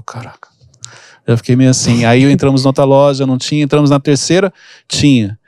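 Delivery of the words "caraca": a stunned, breathy whisper under the breath; whispered Caraca in embarrassment. Retold or imitated. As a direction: mutter it in shock so nobody hears. Stunned child reacting to father.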